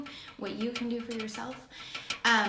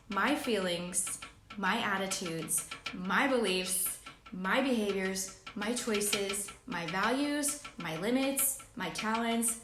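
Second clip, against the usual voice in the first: slow read-aloud; slower than usual. Shown as a demonstration. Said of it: "I'm gonna read it in first person".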